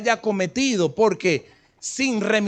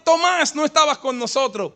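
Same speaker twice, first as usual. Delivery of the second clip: llamando emocionado; 6 semitones higher than usual. Retold or imitated. Discípulos llaman a Tomás.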